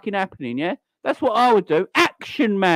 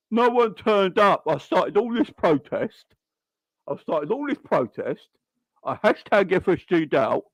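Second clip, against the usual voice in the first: mock whining protester. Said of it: "I don't know what that impersonation was".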